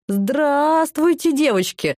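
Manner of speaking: slow, drawn-out jolly greeting; booming Santa-like greeting. A narrator's reading. Old guard greeting the inmates, slow and jolly. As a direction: greet like Grandfather Frost at a party. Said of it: "неожиданно низкий раскатистый голос".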